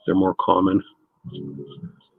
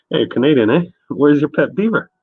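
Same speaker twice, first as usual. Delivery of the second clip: taunting barfly; 6 semitones higher, 4 dB louder than usual. Retold or imitated. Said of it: "What it was".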